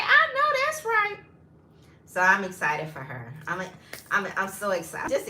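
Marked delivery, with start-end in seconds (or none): 0.0-1.2 high, loud sassy cheer; hyped approval. Retold or imitated. Cheering the widow on about her many matches, loud and high. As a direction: cheer her on, all attitude. Cheering friend's dating success.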